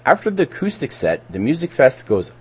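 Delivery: scripted community-radio event read; measured public-announcement delivery. Real, not acted. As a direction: read the listing aloud, stepping through names and details.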